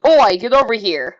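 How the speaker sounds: loud Australian oi, called out; Australian accent. Shown as a demonstration. Reactor showing off an Australian accent. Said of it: "with my Australian accent".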